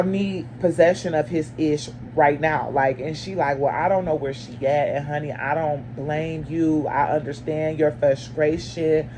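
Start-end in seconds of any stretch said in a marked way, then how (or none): 3.6-9.1 slow, low, unbothered mom; mildly imitated calm mother on the phone. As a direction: imitate the neighbor mom's calm drawl. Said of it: "She talking like this, y'all, calm".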